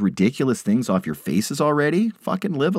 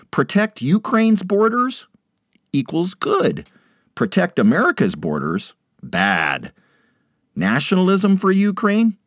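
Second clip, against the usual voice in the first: mocking sing-song. Mocking read of a meme.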